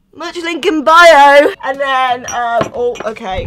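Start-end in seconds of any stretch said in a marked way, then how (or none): 0.1-1.5 slow merch plug. Pretend. Plugging merch again.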